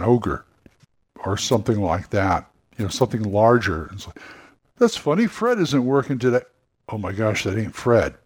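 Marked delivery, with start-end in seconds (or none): 4.8-6.4 a puzzled double take, pitched up. Acted. Owner puzzled by the ogre.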